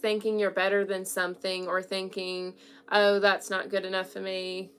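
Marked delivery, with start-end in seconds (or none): 2.9-4.7 mock snooty British accent, lightly done; a haughty little British accent dropped into one line. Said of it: "Not my British accent".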